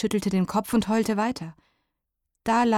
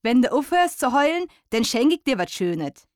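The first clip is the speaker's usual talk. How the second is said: higher, louder coaxing mole in dialect; 5 semitones higher, 4 dB louder than usual. A narrator's reading. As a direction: bribe the owlet kindly. Mole bargains with the owl.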